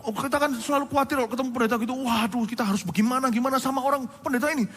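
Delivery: a hint of an eager fan; mock flatterer. Preacher imitating a young fan praising him.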